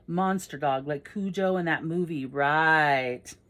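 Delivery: drawn-out doubting "right"; sceptical teasing. Acted. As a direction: scoff at the tall tale. Friend doubts Andy's monster dog story.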